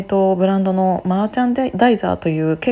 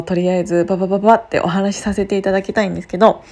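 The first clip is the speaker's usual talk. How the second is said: fast talk; faster than usual. Real, not acted. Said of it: "早口で".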